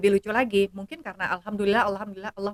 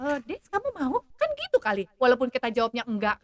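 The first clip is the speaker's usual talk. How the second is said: put-on much higher, indignant teen voice; indignant daughter; 12 semitones higher than usual. Daughter to mother about the date, high and indignant. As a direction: mimic a daughter outraged at a stingy date. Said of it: "katanya gitu".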